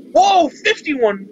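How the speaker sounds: a high, loud, slow amazed whoa; surprised whoa. Real, not acted. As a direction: react in real surprise at the number. Surprised at the video length.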